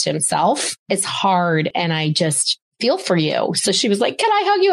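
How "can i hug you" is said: high-pitched imitation of a tentative ask; retold eager request. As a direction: lift it high, asking sweetly.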